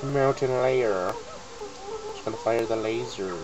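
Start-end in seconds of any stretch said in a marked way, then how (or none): 0.0-1.1 drawn-out, very slow echo; slow repeat. Acted. Repeating Bottles' words, very slow drawn-out echo. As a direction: stretch out the words. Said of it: "repeats it slowly".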